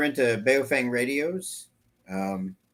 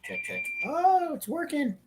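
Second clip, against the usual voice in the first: mic check over a throat mic; 5 dB quieter than usual. Real, not acted. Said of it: "I got my throat mic".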